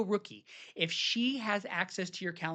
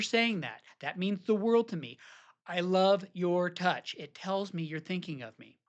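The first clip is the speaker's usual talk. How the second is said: tender appreciation. Shown as a demonstration. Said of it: "You can say it".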